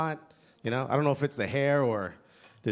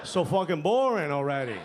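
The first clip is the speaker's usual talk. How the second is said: mock gruff-uncle complaint, only mildly raised; retold yell; 3 semitones higher than usual. Uncles complaining at a family event, mock yell. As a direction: imitate an uncle complaining across the room. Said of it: "you hear our uncles yell".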